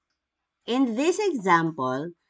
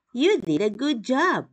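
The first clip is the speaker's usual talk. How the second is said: bright, higher praise with a lift; excited praise; 5 semitones higher than usual. Shown as a demonstration. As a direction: cheer the child on. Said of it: "said in a rising intonation".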